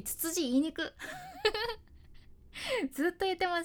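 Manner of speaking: ツツジ言いにく said through a laugh. Real, not acted. Host tripping over ツツジ again, laughing. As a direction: giggle over the words.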